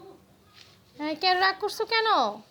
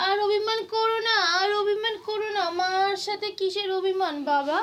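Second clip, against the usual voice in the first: high, sing-song coaxing; coaxing plea; 4 semitones higher than usual. Real, not acted. Mother begging her son to stop sulking, coaxing.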